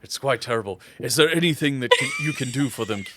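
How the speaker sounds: halting, formal father character; lightly voiced dignified father; worried, courteous father. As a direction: ask politely for help, searching for words. Game master plays the father.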